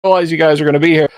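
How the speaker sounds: high and fast, flustered surprise; startled T-Rex. Retold or imitated. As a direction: play a dinosaur caught off guard. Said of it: "he just looks startled".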